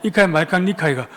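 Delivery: imitated Gyeongsang dialect retort; Gyeongsang accent. Gyeongsang man answers complaint on subway, thick Gyeongsang accent. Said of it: "한 경상도 남자가 이렇게 말했답니다".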